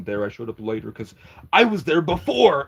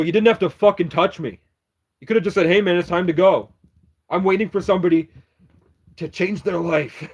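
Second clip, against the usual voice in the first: retold angry retort; 3 semitones higher, 4 dB louder than usual. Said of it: "I get up and go".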